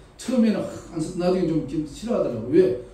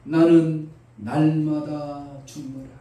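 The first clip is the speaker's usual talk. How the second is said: Paul declaring; much slower than usual. Retold or imitated. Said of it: "바울이 말합니다".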